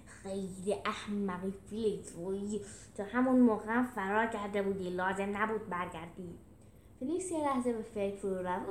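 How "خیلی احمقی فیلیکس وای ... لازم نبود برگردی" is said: grumbling scolding in a different character timbre; gruff, exasperated put-down; growl. Acted. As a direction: growl at a foolish friend. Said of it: "میلوس قرید".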